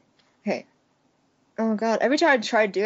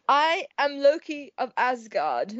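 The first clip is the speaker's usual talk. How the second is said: Loki impression; slower than usual. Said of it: "what did Loki say?".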